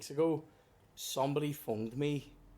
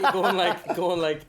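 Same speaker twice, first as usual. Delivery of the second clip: squealing laugh; high laugh; 6 semitones higher, 10 dB louder, slower than usual. Real, not acted. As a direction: burst of high laughter then keeps talking. Laughs at friend's joke.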